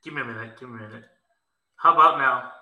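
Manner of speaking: in a cave. Real, not acted. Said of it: "you sound like you're in a cave".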